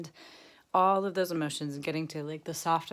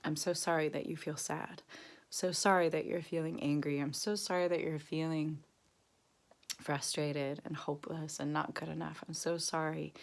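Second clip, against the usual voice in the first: tender self-compassion; 3 dB quieter than usual. Shown as a demonstration. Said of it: "You say by name".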